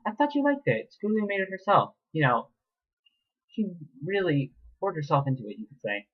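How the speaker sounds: high, gloating villain voice; wicked mayor. Acted. Mayor taunting the captive filly, wicked and high. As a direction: gloat wickedly over the victim. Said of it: "grinning wickedly at her".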